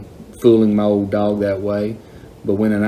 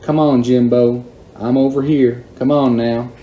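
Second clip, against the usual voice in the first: calling out; 2 semitones higher than usual. Retold or imitated. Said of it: "started calling again".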